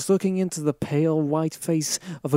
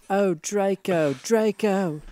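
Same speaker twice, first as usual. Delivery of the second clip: mock passionate cry; 4 semitones higher, slower than usual. A narrator's reading. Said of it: "I screamed while getting an orgasm".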